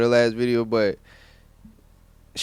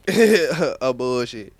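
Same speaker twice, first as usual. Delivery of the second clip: slow laughing; 4 dB louder, much slower than usual. Real, not acted. Repeats verdict, drawn out laughing.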